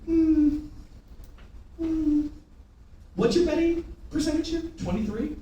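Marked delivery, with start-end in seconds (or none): 0.1-2.3 higher, drawn-out hum; questioning hum. Acted. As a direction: hum it high and hold it. Hummed reaction in mocking act.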